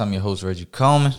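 quick deep host intro; firm radio announcer voice. Acted. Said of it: "why is your voice so deep?".

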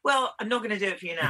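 laughing refusal. Real, not acted.

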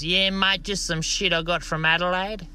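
high put-on voice, deadpan truckie; cheeky truck driver. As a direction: toss it off without missing a beat. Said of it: "this truck driver goes".

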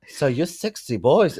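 South African accent attempt. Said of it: "I kinda like that for South African".

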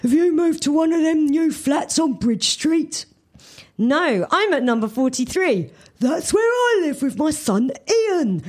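lightly voiced cheerful cafe lady; a hint of a friendly server; smoker's voice. A narrator's reading. Kathy answers the new customer, lightly cheerful. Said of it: "Kathy asks Suze".

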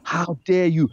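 indignant, badly faked Geordie; bad Geordie accent. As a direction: attempt an outraged Geordie retort. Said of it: "I can't do the Geordie accent".

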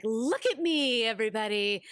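lightly hammed-up plea for validation; mock attention-seeking. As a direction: raise it into a playful cry for attention, then settle. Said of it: "needs so much validation and love".

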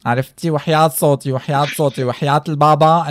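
loud, dramatic diva swearing; Sola impression. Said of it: "بعمل صولا".

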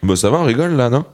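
high and spacey; talking while stoned. Real, not acted. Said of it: "je suis défoncé".

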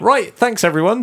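high mock DJ sign-off; imitating a DJ cutting the party; DJ announcement. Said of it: "the D J went".

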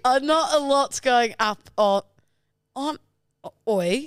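numb mouth, slurring words; slurring through a numb mouth; slurred speech. Real, not acted. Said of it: "Am I having a stroke?".

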